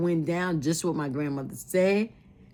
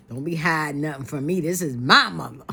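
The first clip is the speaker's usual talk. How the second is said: firm imitated demand, louder toward the end; retold taking charge; 4 dB louder than usual. Daughter demanding the truth about her mother, retold firmly. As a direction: imitate her insisting, punching the last words. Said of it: "She took charge".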